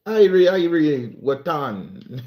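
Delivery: slow, playful Jamaican greeting; Jamaican accent. Acted. Streamer greeting a viewer from Jamaica, slow Jamaican accent. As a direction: lightly put on a Jamaican accent. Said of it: "you are from Jamaica".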